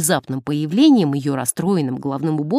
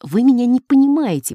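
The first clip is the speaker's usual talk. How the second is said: higher, louder cut-in; impatient interruption; 6 semitones higher, 5 dB louder than usual. A narrator's reading. Nun interrupts the priest, impatiently and loud. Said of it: "прервала его сестра Анжела".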